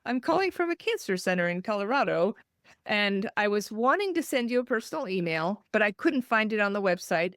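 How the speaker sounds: bright formal caller on the phone; most professional voice. Retold or imitated. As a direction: sound professional and not crazy. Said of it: "put in my most professional, least crazy voice".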